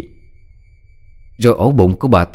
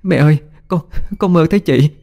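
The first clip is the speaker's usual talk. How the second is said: high, choked with tears; a daughter waking from a nightmare, crying to her mother; tearful; 9 semitones higher than usual. A narrator's reading. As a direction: sob the words out to her mother. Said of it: "khóc lên nức nở".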